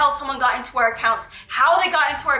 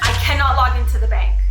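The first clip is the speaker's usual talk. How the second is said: panicked; 5 dB louder, faster than usual. Real, not acted. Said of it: "I'm freaking out".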